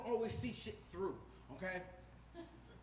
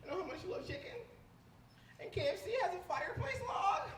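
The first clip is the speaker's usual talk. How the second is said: gush, then shout the big reveal ever higher; excited girlfriend; 10 semitones higher, 6 dB louder than usual. Retold or imitated. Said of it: "She's like".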